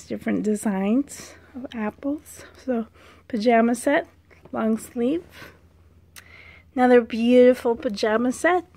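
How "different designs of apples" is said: whisper. Real, not acted. Soft aside while correcting.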